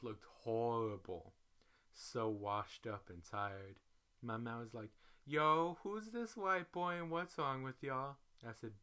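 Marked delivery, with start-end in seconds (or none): 5.2-8.2 loud, high "Yo" in disbelief; startled greeting. Retold or imitated. Boyfriend at the airport seeing them wrecked, loud and startled. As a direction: react with loud, rising surprise.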